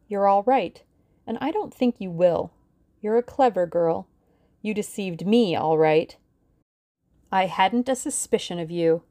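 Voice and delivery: cold threatening woman's voice; menacing villainess. Acted. Villainess gives orders at gunpoint.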